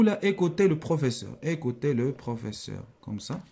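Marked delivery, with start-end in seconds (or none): 1.4-2.8 slow, measured classroom dictation; unhurried word-by-word reading. Shown as a demonstration. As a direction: say it slowly so it can be written down. Same sentence dictated slowly.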